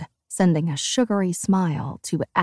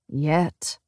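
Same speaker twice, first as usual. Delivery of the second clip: flat; 4 semitones lower than usual. Acted. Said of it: "he says flatly".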